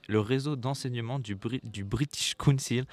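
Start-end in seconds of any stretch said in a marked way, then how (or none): 1.6-2.9 British Council said with an English accent, slowly; slow, careful English accent on British Council, as a French speaker attempts it. Real, not acted. Student radio host pronounces British Council in an English accent. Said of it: "pardonnez-moi mon accent anglais".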